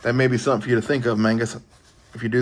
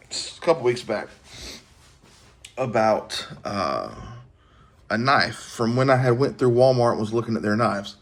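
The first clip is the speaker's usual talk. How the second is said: yawning. Real, not acted. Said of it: "Excuse me, yawning".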